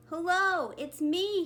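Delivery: a little fish calling to a shimmer ahead. A narrator's reading. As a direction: shout eagerly toward a friend. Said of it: "he called".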